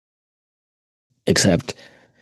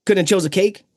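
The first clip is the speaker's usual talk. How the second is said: Donkey voice; 13 semitones higher than usual. Retold or imitated. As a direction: chirp it like a hyper sidekick. Continuing Donkey bit, very high.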